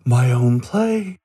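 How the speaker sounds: slow amazed gasp; thrilled disbelief; gasp of delight. Acted. Gasps at sponsorship offer.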